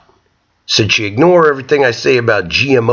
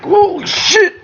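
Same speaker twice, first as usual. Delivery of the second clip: shocked yell; slower than usual. Retold or imitated. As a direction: blurt it out in shock. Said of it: "the guy's like".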